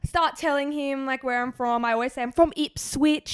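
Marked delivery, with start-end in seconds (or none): 2.2-3.3 fake British accent. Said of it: "talking in a British accent".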